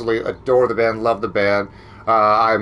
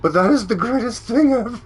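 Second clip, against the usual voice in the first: laughing; 8 semitones higher, faster than usual. Real, not acted. Still laughing at photo.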